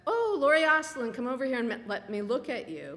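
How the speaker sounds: high, loud gushing aunt calling across the cafe; aunt's greeting. Retold or imitated. Aunt in the town cafe calling her niece over, high gushing voice. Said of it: "And my aunt said".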